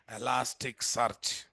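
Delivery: Elasticsearch said slowly, syllable by syllable; slow, deliberate. Shown as a demonstration. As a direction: spell out Elasticsearch slowly as one word. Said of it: "Elasticsearch is a single word".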